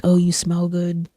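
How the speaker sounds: ordinary talk, nothing marked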